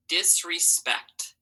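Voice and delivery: Disrespect drawn out slowly, syllable by syllable. Shown as a demonstration. Teacher models Disrespect slowly before the class writes it. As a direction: read Disrespect slowly so each part is heard. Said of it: "final slow read".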